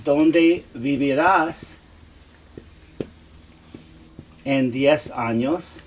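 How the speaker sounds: "¿Dónde vivirás en diez años?" drawn out slowly and clearly; slow model question. Shown as a demonstration. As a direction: pronounce it unhurried, like a teacher modelling. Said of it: "Or if I said to you".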